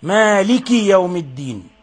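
مالك with a clearly sounded final i; pure kasra. Shown as a demonstration. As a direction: demonstrate a clean kasra on مالك. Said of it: "أخلص الكسر".

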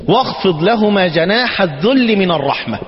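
slow reverent verse reading; quoted verse. Shown as a demonstration. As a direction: recite the verse "واخفض لهما جناح الذل من الرحمة" slowly and evenly. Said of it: "ربنا سبحانه وتعالى يقول ايه".

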